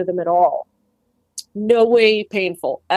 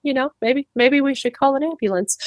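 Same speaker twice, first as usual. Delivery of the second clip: calm aside; 5 semitones higher than usual. Retold or imitated.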